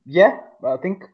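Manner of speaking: hollow, echoey speakerphone sound; inside a well. Real, not acted. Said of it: "You just sound like you're in a well".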